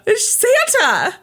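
mock childlike sadness. Mock lament for the kids.

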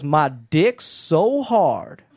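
slow, low rap-lyric delivery; mock rapper drawl. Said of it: "He goes".

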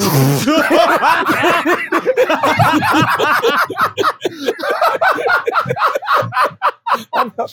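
long, high-pitched laughing fit; real uncontrollable high laughter; laughing hard. Real, not acted. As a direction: crack up helplessly and keep going. Everyone cracks up at mock reading.

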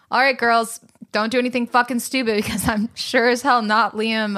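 mock stern dad, loud; dad's gruff warning. Dad dropping the girls off for Europe, mock stern and loud. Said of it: "he was like".

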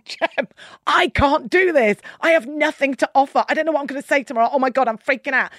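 a hint of mock panic, slowed; retold panic. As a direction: lightly replay the freak-out. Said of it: "pure panic and fear and going".

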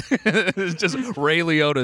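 laughing through the words. Real, not acted. Laughing reveal.

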